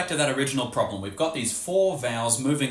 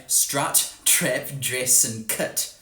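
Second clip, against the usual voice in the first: slow New Zealand accent demo with "trep" and "cut"; New Zealand vowels; much slower than usual. Shown as a demonstration. Teacher showing how New Zealanders say the vowels, slow New Zealand accent. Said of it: "and so they say".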